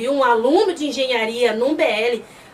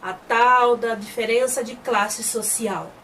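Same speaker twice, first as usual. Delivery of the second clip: weary sigh; much slower than usual. Retold or imitated. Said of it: "Aí o Nan vira pra ele e fala assim".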